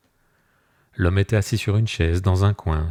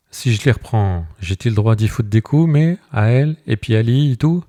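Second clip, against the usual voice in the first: higher and louder, building indignation; shepherd asking the mayor if he may beat them, agitated; rising agitation; 4 semitones higher, 4 dB louder than usual. Acted. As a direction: work yourself up over the cheating wife.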